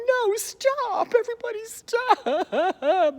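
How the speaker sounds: very high, loud drawn-out cry; overacted shrieking plea; mock hysterical wail. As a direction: wail it out in hammed-up despair. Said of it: "while Christine's going".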